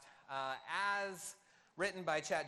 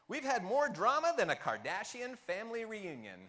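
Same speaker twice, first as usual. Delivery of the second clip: loud, lightly put-on stand-up comedian delivery; Seinfeld accent; 2 semitones higher, 6 dB louder than usual. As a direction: read it like a hammed-up stand-up monologue. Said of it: "read this in a Seinfeld accent".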